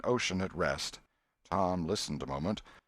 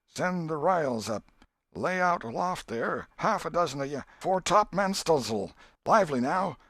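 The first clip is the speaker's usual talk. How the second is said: much higher and louder, commanding the crew; bellowed captain's orders; 10 semitones higher, 4 dB louder than usual. A narrator's reading. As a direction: bark orders across the deck like a ship's captain. Tom commands the raft crew.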